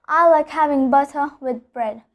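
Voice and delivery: "butter" with the R dropped; British non-rhotic R. Shown as a demonstration. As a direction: end "butter" on a schwa, no R. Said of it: "Drop the R".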